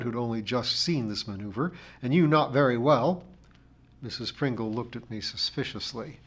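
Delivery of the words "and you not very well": louder, raised protest; crying out. A narrator's reading. Mister Willett warns against lifting great weights, crying out. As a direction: cry out a concerned warning. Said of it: "cried Mister Willett".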